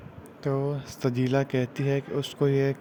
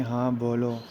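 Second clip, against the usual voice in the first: indifferent. Retold or imitated. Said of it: "بڑے بے رخی سے کہتی".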